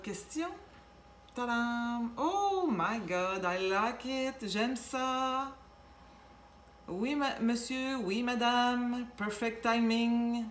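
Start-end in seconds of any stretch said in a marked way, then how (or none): 1.3-10.4 delighted, drawn-out gush; excited card reveal. Real, not acted. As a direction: gush over the card you just turned up.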